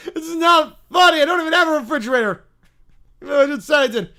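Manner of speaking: put-on high, loud childish protest; mad little bear. Bear to prank callers, angry high whine. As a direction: protest like a cross little kid. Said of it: "got really mad".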